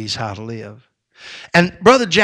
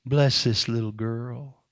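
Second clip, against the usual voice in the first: put-on old preacher's prayer. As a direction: pray over the child gently, barely above a breath. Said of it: "He said something like this".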